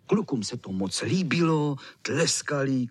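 usual speaking voice

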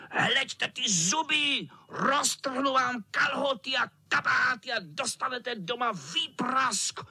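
vysoko, zlověstně a pomalu na drápech; strašit kluky drápy; výhružný kocour. Acted. Kocour hrozí zuby. (kocour vyhrožuje klukům drápy)

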